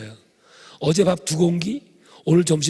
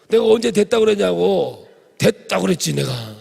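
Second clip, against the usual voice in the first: loud, higher indignant comeback; indignant retort; 4 semitones higher, 5 dB louder than usual. Retold or imitated. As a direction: push back hard, offended. Pastor retorting in retold quarrel.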